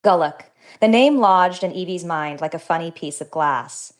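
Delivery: author reading her own novel, even and measured; reading aloud. Acted. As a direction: read the passage like a book excerpt. Author reads excerpt from her novel.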